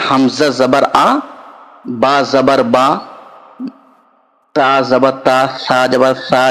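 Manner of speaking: steady teacher recitation of letters; drilling each letter with zabar for pupils. Shown as a demonstration. Teacher drilling Arabic letters for students, steady recitation.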